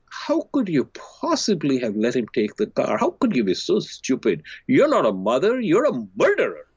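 rising harsh accusation, sharpest on murderer; mock friend's blame building up; lightly voiced scolding friend; accusing friend. Friend accusing mother on phone.

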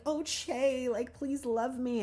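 high, loud hysterical pleading; hammed-up lovesick wail, stretched out; mock hysteria. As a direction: plead desperately in a mocking high voice. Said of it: "like, in hysteria, like, running around".

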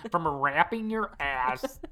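slow, giggly "From wrapping your ass", voice still caught in laughter; laughing. Real, not acted. Cracking up at the co-host's phrase, laughing while repeating it. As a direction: let the laugh spill into "From wrapping your ass", drawn out and rising at the end.

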